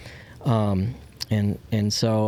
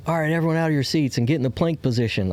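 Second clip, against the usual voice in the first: retold coach yell; 5 semitones higher, faster than usual.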